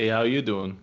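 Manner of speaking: lightly voiced sitcom catchphrase; Joey. Echoing the greeting as the old Joey line, playful imitation. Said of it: "The old, uh, Joey".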